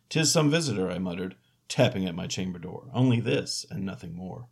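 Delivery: spooky solemn recital; dramatic poem reading. Acted. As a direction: recite Poe with gothic drama. Reading Poe aloud.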